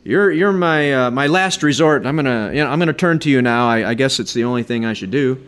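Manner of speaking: a hint of a careless, half-hearted prayer; lightly mocking a casual prayer; flippant prayer. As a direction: toss off the prayer like a last resort. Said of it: "asking flippantly".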